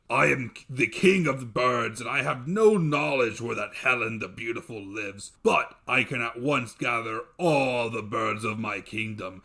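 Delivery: loud, heavy monster voice; a giant making grand promises; booming dev. Acted. Dev telling his wife how he'd treat guests, booming. Dev explains, king of birds.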